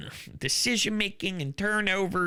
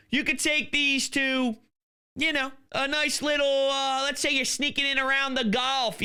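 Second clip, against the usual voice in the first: upbeat host-read cigar sponsor spot; 2 semitones higher than usual. Acted. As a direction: sell the cigars with gusto.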